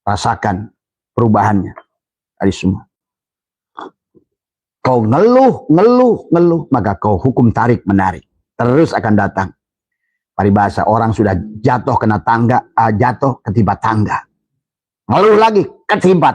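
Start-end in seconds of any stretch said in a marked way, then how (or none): 4.8-6.6 mock the whiner, pitch jumping up; escalating high cry of ngeluh; rising complaint. Real, not acted. Mocking complaining repetition. 15.1-16.4 sharp high exclamation; emphatic cry. Real, not acted. Emphatic sermon point.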